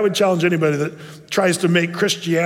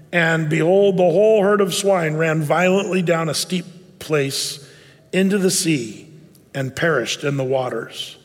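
scripture reading. Acted. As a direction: read the verses with gravity. Reads scripture aloud.

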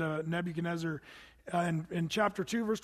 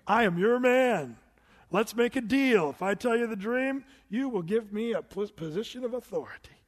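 putting on a show; 2 semitones higher, 4 dB louder than usual. Pretend. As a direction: sell yourself like a showman. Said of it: "I'd put on a good show and say".

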